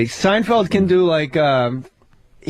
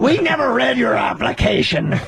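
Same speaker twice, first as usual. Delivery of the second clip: pirate-like voice. Retold or imitated. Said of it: "Why do you make me sound like a pirate?".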